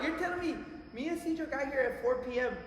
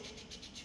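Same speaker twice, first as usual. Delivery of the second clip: camera shutter clicks; 14 dB quieter than usual. Retold or imitated. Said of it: "cameras que go ch".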